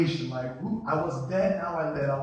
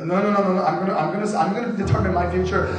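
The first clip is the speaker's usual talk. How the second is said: control freak; 5 dB louder, faster than usual. Retold or imitated. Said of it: "'cause you're a control freak".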